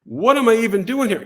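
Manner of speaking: high-pitched, mock-alarmed inner voice; panicked self-doubt. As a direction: repeat the thought in rising disbelief. Same thought repeated, much higher.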